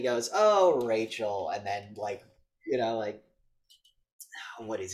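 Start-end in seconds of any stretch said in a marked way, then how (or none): 0.3-1.5 slow, loud, drawn-out name; stretched-out put-on disappointment; mock chiding. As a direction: imitate a villain toying with someone. Acts out villain's chiding.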